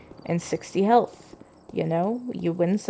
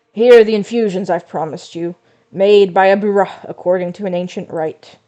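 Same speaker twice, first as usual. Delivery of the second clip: lightly voiced tired grandpa; 7 dB louder than usual. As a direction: read it like a weary old man. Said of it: "let me try the grandpa voice".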